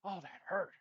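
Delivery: high, loud cry of pain; pained yelp. Acted. Character punched in the face, loud pained yelp.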